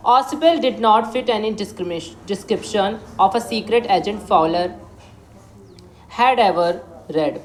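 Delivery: slow, deliberate English reading; story reading. Acted. Teacher reading the story aloud to students, slow and clear. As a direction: read each phrase slowly for the class.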